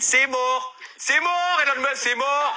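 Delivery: building comic outburst. Acted. Building rant against Elon Musk.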